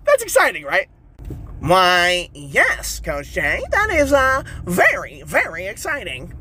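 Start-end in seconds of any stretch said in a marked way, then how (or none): 1.6-6.3 prim listener voice. Pretend. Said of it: "Do you have to talk like that?".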